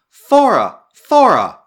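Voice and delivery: loud, high call for someone missing. A narrator's reading. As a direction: call the name into the open, each time falling at the end.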